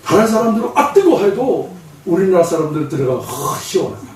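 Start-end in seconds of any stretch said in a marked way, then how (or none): 0.7-1.2 high-pitched cry at the heat; scalded yelp. Acted. Others reacting to scalding heat. 3.2-4.1 breath out, then softer satisfied sigh; relieved contentment. Acted. Koreans relishing hot bath.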